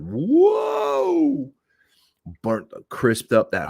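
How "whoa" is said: high, sharp startled yelp; startled whoa. Retold or imitated. Startled by his engine bursting into flame, high yelp. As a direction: jump back in shock at the flames.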